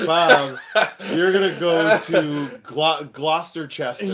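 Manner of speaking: loud, halting stumble into "Gloucesterchester"; boss's mispronunciation. Retold or imitated. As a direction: trip on "Glo-", then sound out "Gloucesterchester". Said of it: "and he goes".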